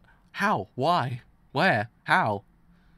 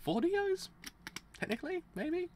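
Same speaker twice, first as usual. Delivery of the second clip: incredulous; 4 dB quieter than usual. Real, not acted. Joking count of villains.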